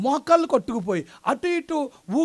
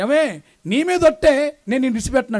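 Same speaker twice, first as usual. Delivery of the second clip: mock earnest vow; 2 semitones higher, 5 dB louder than usual. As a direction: drag out the oath like a besotted groom. Husband swearing vow to wife.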